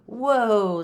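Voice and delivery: loud, high drawn-out whoa; startled cry. A narrator's reading. Kitten pulled by rope into the shack, startled. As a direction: cry out as you're yanked away.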